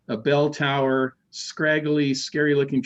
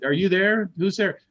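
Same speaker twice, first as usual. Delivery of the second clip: higher-pitched questioning call; 5 semitones higher than usual. Retold or imitated. Teller calls to whoever is downstairs, calling out. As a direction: call out to an unseen person.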